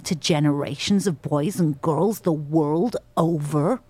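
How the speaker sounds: lightly voiced aggrieved reindeer, measured and slow; slow, pointed accusation in American accent; Blitzen monologue. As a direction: deliver a deliberate, indignant speech in an American accent. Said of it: "she comes out and she says".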